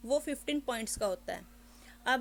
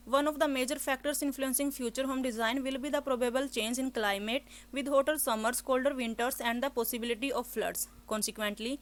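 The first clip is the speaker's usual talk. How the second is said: slow, careful reading of the passage; slow exam read-aloud demo; model read aloud; much slower than usual. Shown as a demonstration. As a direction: read each word clearly for the exam. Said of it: "start करते हैं first वाले read aloud को".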